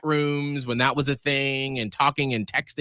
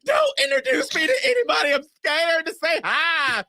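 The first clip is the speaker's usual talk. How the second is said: mock scared; 13 semitones higher than usual. Wife begging husband not to introduce her, high mock panic. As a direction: whine it like a frightened kid.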